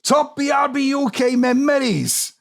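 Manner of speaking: put-on Welsh accent. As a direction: read it in a sing-song Welsh accent. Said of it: "I can do a respectful Welsh accent".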